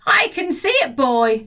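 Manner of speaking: grandma shouting back. Acted. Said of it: "the old girl shouted back".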